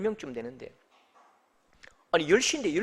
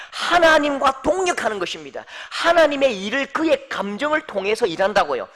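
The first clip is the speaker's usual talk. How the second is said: raised, louder pulpit delivery; forceful preaching; 6 semitones higher, 8 dB louder than usual. Acted. Preacher challenges the congregation about their anger, preaching forcefully. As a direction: press the point on the congregation, high and strong.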